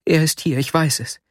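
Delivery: excited interruption. A narrator's reading. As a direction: cut in, too worked up to wait. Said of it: "fiel mir Nastjenka erregt ins Wort".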